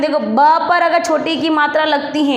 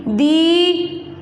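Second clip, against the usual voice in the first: दीपक split slowly into दी...प...क; syllable by syllable; much slower than usual. Shown as a demonstration. Teacher building a word for pupils, syllable by syllable. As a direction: sound out दीपक with gaps between syllables. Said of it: "क्या बनेगा बेटा?".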